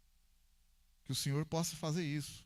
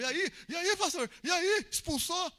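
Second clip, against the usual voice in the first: much higher and louder, eager questions; eager crowd; 12 semitones higher, 5 dB louder, slower than usual. Retold or imitated. Imitating the waiting crowd asking the pastor if he expelled it. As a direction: pile on the questions, rising in excitement.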